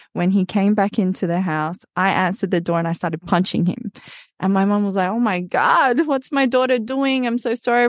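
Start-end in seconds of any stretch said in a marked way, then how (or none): 5.1-7.9 higher-pitched, flustered mum voice; alarmed mum. Retold or imitated. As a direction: imitate a mother apologising in alarm. Mum reacts to daughter punching cousin.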